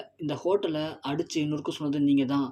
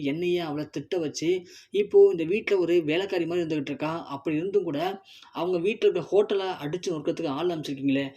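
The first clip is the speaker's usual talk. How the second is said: angry shouting. Acted. Sethu yells at his aunts, outraged. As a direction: shame them with righteous anger. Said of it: "அப்படின்னு கத்த".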